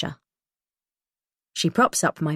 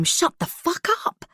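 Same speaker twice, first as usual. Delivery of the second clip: sharp angry retort; 12 semitones higher than usual. A narrator's reading. Holly snaps back at screaming girl.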